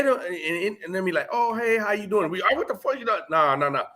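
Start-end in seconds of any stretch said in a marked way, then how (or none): 1.3-2.3 easy, friendly hello, a bit higher; nice greeting. Retold or imitated. To a fellow ex-inmate, a friendly hey. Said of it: "I don't mean in a nice manner". 2.4-3.2 mock hostile snap, a bit higher; rude challenge. Imitating a stranger's rude greeting, mock hostile. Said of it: "I don't mean in a nice manner".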